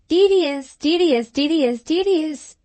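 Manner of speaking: high, insistent parrot squawk; angry parrot. A narrator's reading. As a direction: mimic a cross parrot repeating itself. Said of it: "repeated the parrot in a very angry voice".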